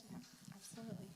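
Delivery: cough-strained voice; speaking through a lingering cough. Real, not acted. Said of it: "I apologize for coughing".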